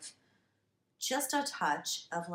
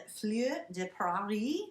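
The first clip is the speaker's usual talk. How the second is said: fake French accent. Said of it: "complimented on my fake French accent".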